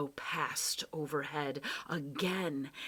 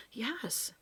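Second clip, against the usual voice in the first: rising, higher, eager voice; excited cry; 8 semitones higher, 4 dB louder than usual. Acted. Boy hearing something, crying out to the professor, excited. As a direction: blurt it out, hardly believing it. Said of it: "he cried".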